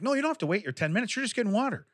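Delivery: high-pitched mock realization; imitated high, incredulous self-talk; retold realization. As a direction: say it high, acting out the penny dropping. Retold revelation about just getting water.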